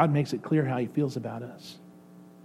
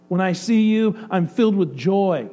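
higher and louder, the joy climbing; joyful; 3 semitones higher, 4 dB louder than usual. Acted. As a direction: let the gladness swell. God's joy builds with each repeat.

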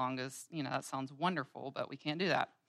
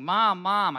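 put-on child screaming; 4 semitones higher, 12 dB louder than usual. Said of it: "Davis starts screaming".

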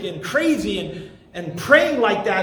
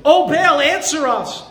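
mock cry to Baal; 3 semitones higher, 4 dB louder than usual. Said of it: "they shouted".

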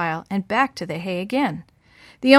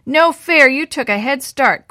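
loud protest, high and indignant; shouting; 5 semitones higher, 7 dB louder than usual. Acted. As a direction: yell it out, running behind. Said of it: "Quentin shouted".

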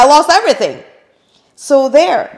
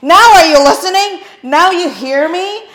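big high loud yell; mock shout; 10 semitones higher, 13 dB louder than usual. God yelling at her to finally listen, loud. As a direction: bellow it like God swinging a two-by-four. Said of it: "took a two-by-four and went".

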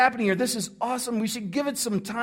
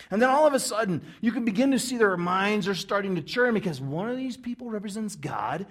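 ordinary delivery

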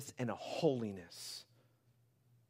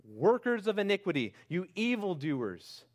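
Jesus's judgment; 6 semitones higher, 6 dB louder than usual. Retold or imitated. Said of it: "And he'll say".

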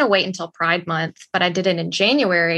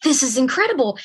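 amazed realization; 3 semitones higher than usual. Retold or imitated. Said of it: "And I was like".

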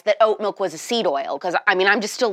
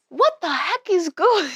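high mock British, slow and dissolving into laughter; bad British try, laughing through it; failed British accent; 8 semitones higher than usual. Giving up on British accent, laughing. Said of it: "I can't do a British accent".

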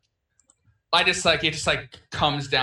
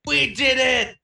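high, loud victory shout; jubilant, raised-pitch holler; excited yell; 9 semitones higher, 5 dB louder, slower than usual. Acted. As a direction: yell it out in triumph. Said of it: "yell out in excitement".

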